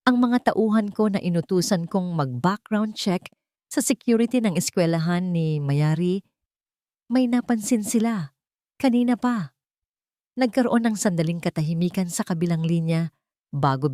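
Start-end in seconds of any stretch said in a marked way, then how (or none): 0.1-9.5 alarmed. Acted. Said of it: "Napalitan ito ng pagkaalarma".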